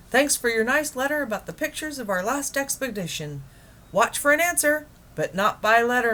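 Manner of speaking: a hearty broadcast message; Admiral Drake on the radio. Acted. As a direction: explorer addressing Mr. Popper on air. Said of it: "a faint voice floated out".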